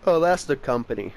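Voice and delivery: yawning. Real, not acted. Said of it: "Sorry, I was yawning".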